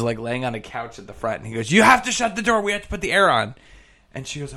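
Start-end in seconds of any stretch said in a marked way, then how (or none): 1.7-3.6 higher, louder mock yell; retold yell. Sweaty barber yells at woman on the couch, mock yell. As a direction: call across the shop to shut the door. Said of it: "he yells at this woman".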